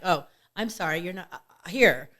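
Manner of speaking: quiet, sheepish sorry; soft apology. Retold or imitated. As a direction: back off gently with an apology. Apologising when people back off.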